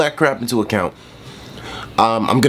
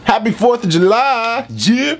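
excited cheer; 11 semitones higher, slower than usual. Real, not acted. Festive holiday cheer.

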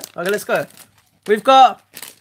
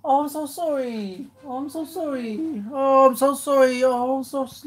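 sad consoling; 5 semitones higher, 4 dB quieter than usual. Real, not acted. Girlfriend's cat just died.

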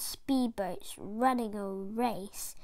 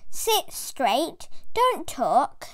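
teacher's order; 2 semitones higher, slower than usual. Acted. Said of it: "telling the class".

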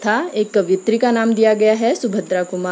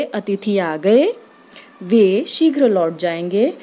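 slow, hold a clear pause at the comma; slow example read with pauses; slower than usual. Shown as a demonstration. Teacher reads semicolon example to students, slow with a pause. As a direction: read it slowly, marking the semicolon break. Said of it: "जैसे".

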